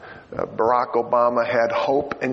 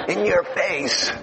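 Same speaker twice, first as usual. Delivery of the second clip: laughing taunt; 5 semitones higher, much slower than usual. Acted. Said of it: "gloating punchline with laugh".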